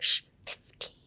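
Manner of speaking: a shush, then "fifteen" whispered with a puff on the F; "fifteen" breathed out like a dog's muffled last bark; huffed "fifteen". Shown as a demonstration. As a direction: say "fifteen" as a soft, airy huff. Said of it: "how you should pronounce fifteen".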